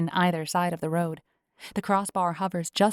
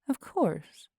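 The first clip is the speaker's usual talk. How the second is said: smiling; 3 semitones higher than usual. A narrator's reading. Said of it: "I can hear the smile in her voice".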